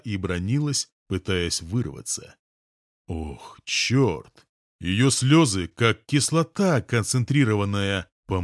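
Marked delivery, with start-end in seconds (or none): none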